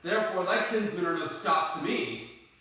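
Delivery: lightly declaimed love verse; ardent Romeo. Acted. Romeo explains how love carried him over walls, mildly declamatory. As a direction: proclaim love with swelling emphasis.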